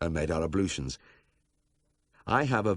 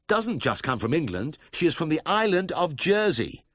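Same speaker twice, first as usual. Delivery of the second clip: agitated protest; 11 semitones higher, 5 dB louder than usual. A narrator's reading. Protesting to the officials.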